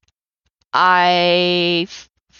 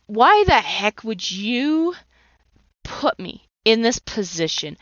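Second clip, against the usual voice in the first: retold outburst, slow and a bit higher; mock angry yell at God; 3 semitones higher, slower than usual. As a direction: rebuke God slowly and half-heartedly. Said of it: "I yelled and I screamed".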